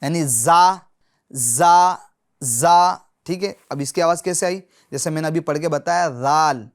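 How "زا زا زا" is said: زا said short with a plain z; wrong z sound. Shown as a demonstration. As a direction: show the mistaken زا sound. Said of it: "اگر اس حرف کی آواز آئی". (غلط زا کی آواز)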